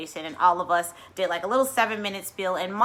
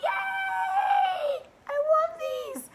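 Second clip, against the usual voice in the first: much higher squeal of joy; squealing delight; much slower than usual. Retold or imitated. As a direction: squeal it like a thrilled child. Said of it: "I was like".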